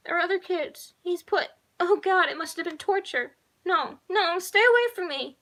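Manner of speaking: high, rising into loud scream; screaming little girl. A narrator's reading. Little girl screams as the man approaches, high and rising. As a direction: panic building to a scream. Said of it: "the little girl screamed".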